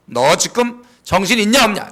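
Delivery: scolding yourself. Shown as a demonstration. Preacher showing the church how to scold yourself, loud and stern. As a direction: shake yourself awake with a sharp scold. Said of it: "야단치는 거예요".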